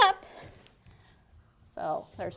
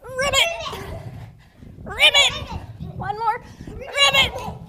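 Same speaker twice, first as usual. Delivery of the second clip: high, excited frog ribbit; croaking like a frog; 10 semitones higher, much slower than usual. Shown as a demonstration. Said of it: "hop and ribbit three times".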